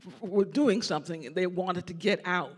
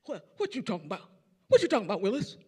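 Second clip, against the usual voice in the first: playful imitation; 5 dB louder, much faster than usual. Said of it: "same look like".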